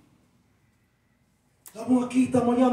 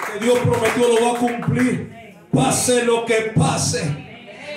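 fiery preaching; 2 semitones higher than usual. Acted. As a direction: preach it to the crowd.

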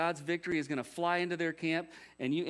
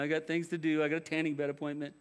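half-hearted. Acted. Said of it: "he's half-hearted".

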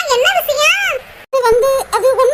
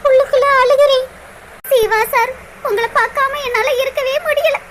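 crying. Acted. Girl weeping over lost love.

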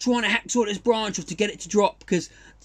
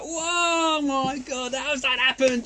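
retold shock; 6 semitones higher, much slower than usual. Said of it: "it's like".

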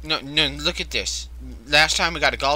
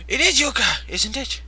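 surprised; 8 semitones higher, 5 dB louder than usual. Real, not acted. Surprised finding friend alive.

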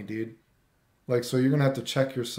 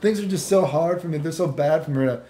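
put-on imagined girl's voice; 4 dB louder than usual. Girl telling him things are hard, mock-pitiful. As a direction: imitate her pouring out her troubles. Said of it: "I'm imagining that's how she talked".

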